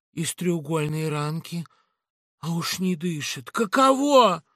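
mock the killer; Laura, sarcastic. Laura examines body.

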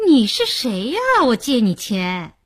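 stumbling, incredulous challenge; mildly stunned retort; taken aback. Acted. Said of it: "说的艾丽都愣住了".

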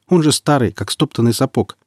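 incredulous objection, starting high; surprised. A narrator's reading. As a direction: protest in disbelief. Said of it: "удивился Марек".

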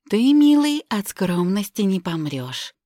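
high, loud playful tease; teasing. Acted. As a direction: tease him fondly. Teasing him.

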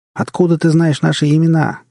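high, loud demanding cry; frightened shout. A narrator's reading. Woman shouts a question into the darkness, frightened shout. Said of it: "крикнула Энн в темноту".

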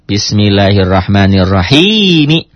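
"Bismillahirrahmanirrahim" said slowly and evenly; slow full reading. Shown as a demonstration. Teacher modelling the full line for students, slow. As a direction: read "Bismillahirrahmanirrahim" slowly, every letter. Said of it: "Ingat, teori semua baris".

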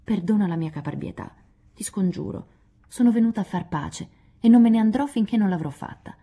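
mock-humble plea that swells at the end; hammed-up humble apology; humbly. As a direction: play the contrite penitent, half in jest. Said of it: "disse umilmente".

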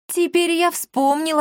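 high, slow emphatic; excited recall. Acted. Akatsiy excitedly recalls where he saw the cat, high and slow. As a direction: stress on я, drawn out.

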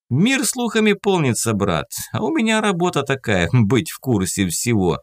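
high, gloating and pleased; triumphant. Acted. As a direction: crow over knowing everything. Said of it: "торжествует Иван".

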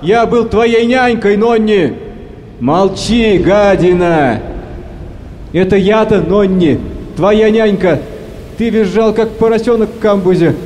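put-on old sailor whining to his captain for his life; rough whining. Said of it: "Хорры грубо хнычет".

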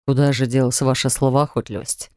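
a hint of teasing rector; mock surprise. A narrator's reading. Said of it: "притворно удивился Нерс".

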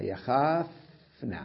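يخافن drawn out slowly, syllable by syllable; slow example word. Shown as a demonstration. Teacher slowly sounding out يخافن for students. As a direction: spell out يخافن slowly for the class.

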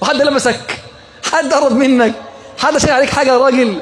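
high, fast mock-outraged questions; mock incredulous questioning. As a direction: pester the dog with high quick questions. Mock questioning the panting dog.

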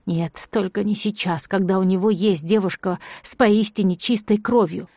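usual speaking voice

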